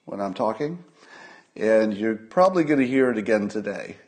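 faint whistle on the breath; nose whistle. Real, not acted. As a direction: let a faint wheeze whistle through. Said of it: "asked me why I kept whistling".

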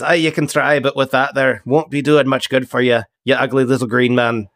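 lightly voiced salty captain, mocking; ship captain, taunting. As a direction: taunt a prisoner with a hint of sea captain. Game master voices ship captain.

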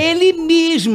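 high, emphatic reply; mock gleeful confirmation. Prankster confirms the colleague to the waxer, mock gleeful.

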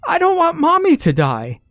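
high, loud, crying wail; a little girl howling in terror; wailing shout. A narrator's reading. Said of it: "let a terrible wail and shouted".

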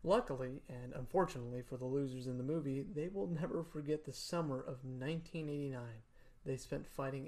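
measured read-aloud narration; story reading. Acted. Reads a prepared text aloud.

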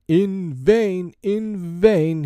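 loud, high dramatic cry. A narrator's reading. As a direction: cry it out with a flourish. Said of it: "he cried".

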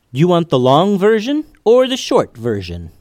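put-on high, cheeky young voice; cheeky kid voice. A narrator's reading. Sam's cheeky question to the bear.

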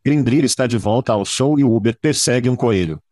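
hoarse, raspy voice from shouting; worn-out rasp after too many parties; gravelly voice. Real, not acted. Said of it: "E minha voz está rasgada".

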